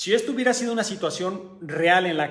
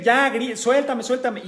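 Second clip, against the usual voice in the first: higher, louder pleading cries; imitated pained yelling; 6 semitones higher, 3 dB louder than usual. Teacher recalling the student's cries, higher and louder pleading. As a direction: plead to be let go. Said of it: "por los gritos de este muchacho".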